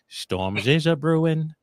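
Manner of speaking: mock British accent, drawn out slowly; Dick Van Dyke. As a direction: put on a bad British accent, stretched out. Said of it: "as Dick Van Dyke would say in Mary Poppins".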